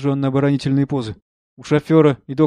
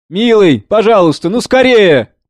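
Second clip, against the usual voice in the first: pleading urgency; 7 semitones higher, 6 dB louder than usual. Acted. Son begs driver to hurry.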